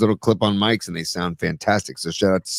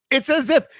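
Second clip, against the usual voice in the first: sarcastic; 11 semitones higher than usual. Real, not acted. Mocking the Chiefs losing.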